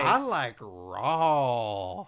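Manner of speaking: each word stretched slowly; slow drawn-out. Acted. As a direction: savour every word slowly. Repeated drawn-out.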